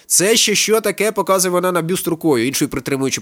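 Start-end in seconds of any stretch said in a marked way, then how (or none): 0.1-1.1 high, slow, startled question; alarmed outcry. A narrator's reading. Woman pointing at the bust, alarmed outcry. Frightened woman demands what it is.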